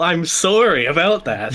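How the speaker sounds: "sorry" with a rounded OR, like "sore-ee"; Canadian "sorry". Pretend. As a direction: lean on a Canadian "sorry", amused. Answers with own Canadian sorry.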